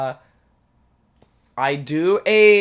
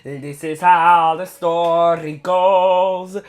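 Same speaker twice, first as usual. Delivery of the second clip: put-on Italian accent. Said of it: "How's that Italian accent, chat?".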